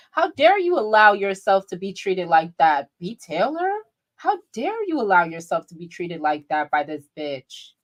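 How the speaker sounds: mock-outraged telling-off on B Taylor's behalf; indignant scolding. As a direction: scold her, hitting "dare" hard. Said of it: "I'm mad for B Taylor".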